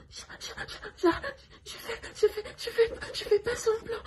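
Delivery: high, stammering, whiny mock of a weak patient; mocking imitation. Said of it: "elle m'imitait en disant".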